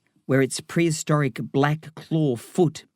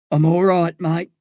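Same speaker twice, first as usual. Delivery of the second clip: slightly raised, tender dad's voice; tender reassurance; 4 semitones higher, 4 dB louder than usual. A narrator's reading. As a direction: reassure your son tenderly. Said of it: "I remember that tenderness in the tone".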